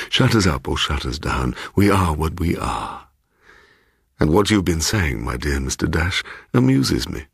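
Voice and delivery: lightly voiced fussy old man; a hint of a pompous host; eccentric old gentleman. Mister Bloom.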